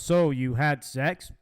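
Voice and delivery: slow, flat robot voice. Retold or imitated. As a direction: imitate a robotic caller, slowly. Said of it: "so the robot goes".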